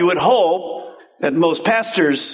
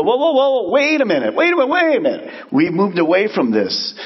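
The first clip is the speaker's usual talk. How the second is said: alarmed halt; 4 semitones higher than usual. Pretend. Prophet noticing decline, high urgent alarm. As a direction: rise up in alarm to stop the drift.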